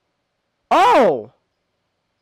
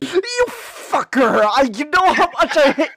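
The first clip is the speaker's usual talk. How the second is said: exasperated outburst; 6 semitones higher than usual. Real, not acted. Venting relief about hated character.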